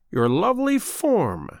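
sinister, taunting sea witch. Acted. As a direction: menace her, the wicked witch. Sea witch in fairy tale.

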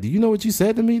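high accusing question; mock confronting. Partner confronting a drunk, high mock accusation. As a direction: ask it high and pointed. Quoting next-day confrontation.

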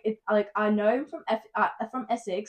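put-on British accent from Essex. Podcaster convincing a Londoner she is from Essex, Essex accent. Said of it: "my accent is, like, from the Essex area".

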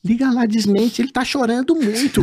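a hint of a worried friend pushing; Bananinha urging. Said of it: "Bananinha falando assim". (leve imitação de amigo aflito)

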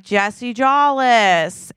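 lightly mimicked MC introduction; slow stage introduction; MC announcing. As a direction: draw the name out like an emcee. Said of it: "So the M C's like".

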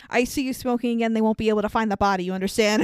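very fast, understated threat; quick retold threat under control; mock snapping threat. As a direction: rattle off a menacing warning, half in earnest. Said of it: "she just immediately snaps at him".

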